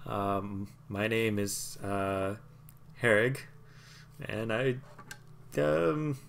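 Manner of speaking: a nervous tiny courier fumbling his delivery; halfling courier voice. Acted. Halfling introduces himself.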